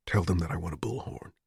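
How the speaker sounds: soft unvoiced whisper. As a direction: breathe the words to her. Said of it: "Richard said softly to her".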